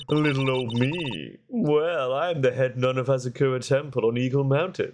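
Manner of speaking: playful nun introducing herself, swooping pitch; chatty head nun. Acted. Head nun introduces herself to the court, playful character voice. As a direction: introduce yourself as a self-pleased little old nun.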